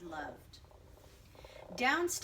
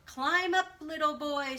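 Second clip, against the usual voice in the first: high, loud coaxing call; the tree calling down to the tiny boy, loud and high; 5 semitones higher, 7 dB louder than usual. Acted. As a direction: urge the little boy upward, loud and high. Tree urges boy to climb.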